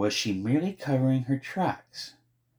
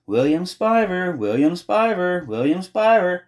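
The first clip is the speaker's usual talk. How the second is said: hopeful repeated calling; 9 semitones higher, 6 dB louder than usual. A narrator's reading. Girl desperately repeating his name, hopeful calling. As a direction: keep calling the name, higher and louder each time. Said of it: "hopefully kept saying his name".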